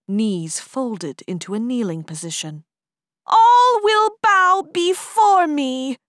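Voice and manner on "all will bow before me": very high, loud, slow demonic command; dark lord. Acted. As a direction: order the world to kneel. Demon boy commands surrender.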